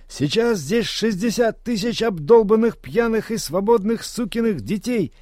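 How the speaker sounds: high roaring stage yell; yelled into microphone. Acted. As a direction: roar it at the crowd from the stage. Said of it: "проорал в микрофон вокалист".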